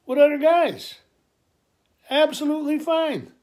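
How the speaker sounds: dad fervently assuring his son; passionate reassurance. Retold or imitated. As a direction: preach acceptance with full heart.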